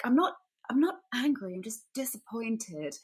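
a parent letting you down gently, lightly imitated; disappointed parent. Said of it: "worst thing a parent can say".

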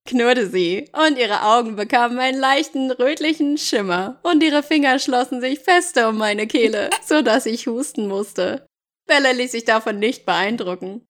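measured audiobook reading; story narration. Acted. Jacob recounting losing Bella, story narration. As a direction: read it as Jacob's dramatic account.

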